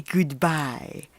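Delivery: put-on a predator luring a little girl, slowly; sly wolf voice. Wolf takes leave.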